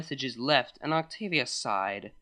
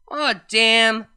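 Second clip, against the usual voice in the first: louder, a bit higher tipsy groan; drunk Vinyl voice; 5 semitones higher, 8 dB louder than usual. Acted. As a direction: let it slip out tipsy.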